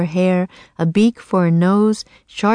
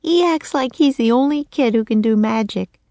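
put-on high little-girl voice, croaked; a girl turned raven, croaking; 6 semitones higher than usual. Annie to Jack in the nursery, high croaking girl.

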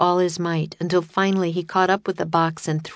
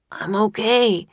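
lightly croaked, pitched-up reply; Jack croaking; 4 semitones higher than usual. A narrator's reading. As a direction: croak it out after a sandstorm. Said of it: "croaked Jack".

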